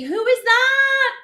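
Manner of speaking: surprised question. Real, not acted. Surprised by a new name.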